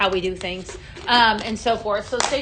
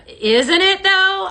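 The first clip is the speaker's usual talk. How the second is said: higher, louder, drawn-out delight; higher, louder excited question to viewers; excited gush; 9 semitones higher, 7 dB louder, much slower than usual. Real, not acted. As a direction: gush over the shade. Enthusing over product.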